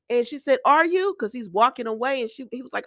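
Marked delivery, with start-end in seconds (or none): 0.7-1.1 retold upset question, high and louder; mock panic. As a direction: press him for an answer, imitating her distress. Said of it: "So now Summer hyperventilating".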